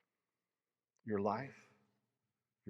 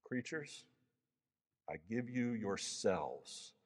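a hint of a strong, happy lion, slow; 4 dB quieter, slower than usual. Aslan speaks to the new creatures in a lightly voiced, strong, happy way. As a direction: give them the gift gladly and slowly. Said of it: "strong, happy voice of Aslan".

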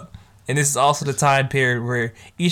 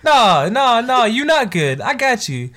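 much higher, loud no no no; high protective insistence; 9 semitones higher, 4 dB louder, slower than usual. Retold or imitated. Girl refuses Futuro's reassurance, pitched high and loud. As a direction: insist he is not fine, climbing high.

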